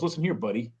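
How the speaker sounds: low-key warning "listen here, buddy"; understated warning to a so-called buddy. Acted. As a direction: put someone quietly on notice. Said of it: "But if someone goes".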